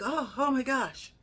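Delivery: mock horror at the sight of the injury; terrified. Passerby reacting to the ankle, imitated slow horrified gasp. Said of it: "like he was terrified".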